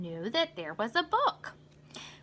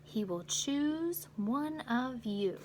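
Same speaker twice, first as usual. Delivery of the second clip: slow, softer mysterious reply; slow, mild mysterious conductor; conductor's answer; 5 dB quieter, slower than usual. Acted. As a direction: let the promise hang. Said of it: "The conductor answered".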